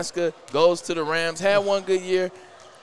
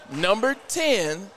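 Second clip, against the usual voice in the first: top ten countdown; 3 semitones higher, much slower than usual. Acted. Countdown announcement.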